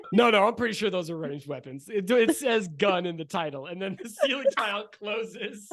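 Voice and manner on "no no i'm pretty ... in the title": nerdy dweeb voice. Acted. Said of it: "stick his head down and go".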